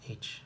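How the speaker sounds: H as a soft breathy h sound; just breathe out the h; voiceless h. Shown as a demonstration. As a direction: demo of glottal fricative. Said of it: "Voiceless glottal fricative".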